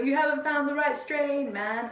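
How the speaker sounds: lazy stoner drawl; lightly voiced laid-back stoner. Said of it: "Love your stoner voice".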